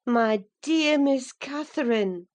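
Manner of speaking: Nelly holding back a scold, kindly; gentle restraint. A narrator's reading. Nurse gently addressing her young mistress, mildly reproachful. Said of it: "too vividly impressed ... into a scold".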